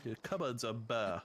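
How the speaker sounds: "cupboards" and "bare" with dropped r, upper-crust Southern; plantation Southern accent. Shown as a demonstration. Repeating the plantation accent demo for friends. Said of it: "A plantation style accent".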